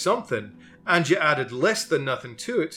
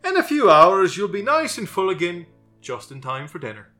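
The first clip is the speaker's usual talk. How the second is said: sympathetic; 5 semitones higher, 7 dB louder than usual. Acted. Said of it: "from his most sympathetic face".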